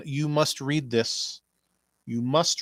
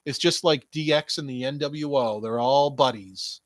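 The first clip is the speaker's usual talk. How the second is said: mocking quote; 3 semitones higher, 4 dB louder than usual. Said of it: "their good friends were like".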